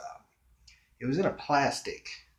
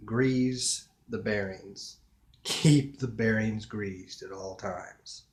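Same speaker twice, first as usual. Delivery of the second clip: mock mechanic; slower than usual. Playful slow mechanic advice.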